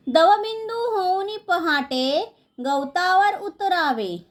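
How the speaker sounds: measured, singsong verse reading; lilting schoolroom poem reading; poem recitation. Acted. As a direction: recite line by line, drawing out the line endings.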